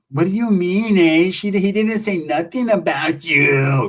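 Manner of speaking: imitated gravelly-voiced woman. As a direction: put on a gravelly rasp, indignant retort. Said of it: "With the gravelly ass voice".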